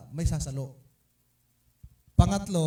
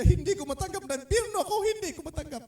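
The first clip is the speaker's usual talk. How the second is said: imitating crying; 14 semitones higher, faster than usual. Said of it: "Iyak siya ng iyak".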